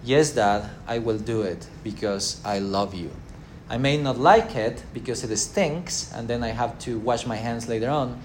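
gently mean every word of it; loving reply. Retold or imitated. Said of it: "Love, on the other hand, says".

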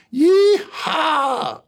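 high, loud joyful whoop; thrilled yell. Retold or imitated. Son shouting as the coaster hits the loop, high whoop. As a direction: whoop like a kid loving the ride.

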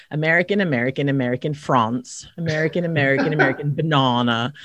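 imitating an English husband saying American words; light English accent with a non-rhotic R. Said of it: "So he sounds like this".

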